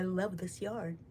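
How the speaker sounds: talking through a yawn; words stretched by a yawn. Real, not acted. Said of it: "Excuse me, I'm yawning".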